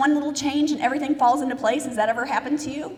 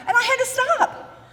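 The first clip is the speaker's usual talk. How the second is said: laughing; 12 semitones higher, 4 dB louder than usual. Real, not acted.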